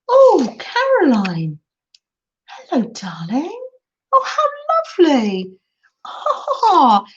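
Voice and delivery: high, swooping cries with a hushed greeting; touched, tearful delight. Real, not acted. Greeting an old pen pal who appears unexpectedly, touched. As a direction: coo it, moved nearly to tears. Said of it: "that brought a tear to my eye".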